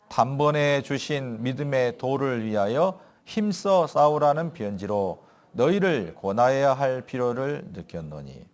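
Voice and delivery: slow, solemn Bible reading; scripture reading. Acted. Pastor reading Jude to the church, solemn and slow. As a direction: read the verse slowly and gravely. Reads verse together.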